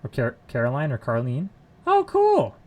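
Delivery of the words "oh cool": high, loud burst of delight; excited. Real, not acted. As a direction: exclaim it with a high, sudden thrill. Delighted reaction to puns.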